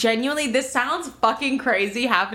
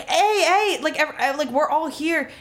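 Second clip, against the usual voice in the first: brother alarmed; 6 semitones higher than usual. Retold or imitated. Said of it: "Dante's like".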